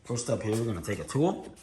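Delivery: talking around a lollipop; mouth full. Real, not acted. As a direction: lollipop in mouth while speaking. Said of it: "I've got the lollipop in my mouth now".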